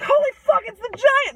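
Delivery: high, loud shriek of alarm; panicked kids. Acted. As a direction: scream a warning and scatter. Kids see the giant, flee.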